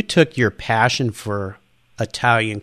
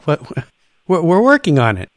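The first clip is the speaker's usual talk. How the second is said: higher, louder baffled protest; puzzled Italian staff; 5 semitones higher, 3 dB louder than usual. Retold or imitated. Staff baffled by the upset customer, higher and louder. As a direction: act innocently confused.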